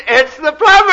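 very high, loud squawked announcement; parrot punchline. Acted. Parrot answering from inside the house, loud screech. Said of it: "out of the house comes a voice".

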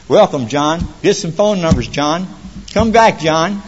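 lightly acted round of greetings; mock group welcome. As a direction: call out a routine welcome.

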